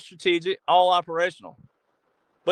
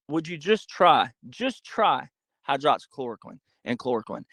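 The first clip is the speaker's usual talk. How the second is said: delicate; 3 semitones lower than usual. Retold or imitated. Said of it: "he said it delicately".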